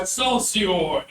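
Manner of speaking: mock battle cry, held long; Cypress. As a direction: call it out long and high. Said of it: "Cypress yells out".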